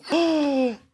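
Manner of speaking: sharp, high mock gasp; loud gasp. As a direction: gasp in fake shock. Mock shock at a threat.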